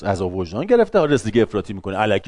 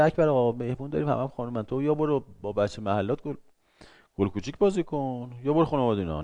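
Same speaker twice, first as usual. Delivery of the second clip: softer, coaxing wife; wife's request; 2 semitones higher, 5 dB quieter than usual. Retold or imitated. Wife telling Akbar Agha to leave, coaxing softly. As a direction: shoo him out gently. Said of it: "خانمش میگه".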